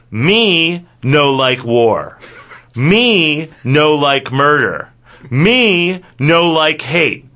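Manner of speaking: very slow, each "me" drawn out; mock caveman simplicity. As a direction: spell it out slowly like a caveman. Mock primitive broken-English declaration.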